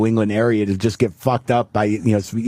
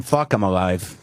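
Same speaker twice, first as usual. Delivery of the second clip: grim dismay; 6 semitones lower, slower than usual. Retold or imitated. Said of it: "better than saying".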